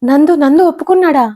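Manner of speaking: as if you can't believe he agreed; astonished, voice jumping up; surprised. A narrator's reading. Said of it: "ఆశ్చర్యంగా వచ్చాయి".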